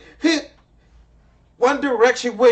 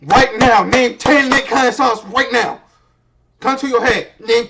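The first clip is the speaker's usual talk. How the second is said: louder, demanding call-out; loud challenge; 7 dB louder than usual. Real, not acted. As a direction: dare the chat out loud. Streamer challenges viewers loudly.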